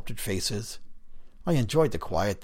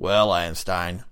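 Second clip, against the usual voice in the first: raspy voice; 5 dB louder, slower than usual. Acted. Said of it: "he continued".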